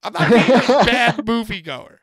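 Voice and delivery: loud, laughing self-defense; laughing protest. Real, not acted. Laughing while defending himself to a friend. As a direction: protest through a laugh, slowly.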